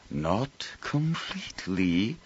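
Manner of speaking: harsh, slow, each syllable separate; harsh clipped. A narrator's reading. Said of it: "her voice harsh, separated each syllable".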